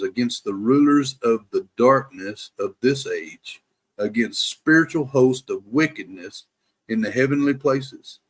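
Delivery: measured, emphatic scripture recital; prayerful reading. Real, not acted. Man praying the armor of God over listeners, prayerful reading. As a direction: read it phrase by phrase as a prayer. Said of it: "read this as a prayer to the Lord".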